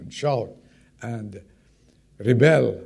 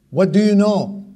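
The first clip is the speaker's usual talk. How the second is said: exasperated question; 7 semitones higher, 7 dB louder than usual. Acted. Neighbor challenges Abraham.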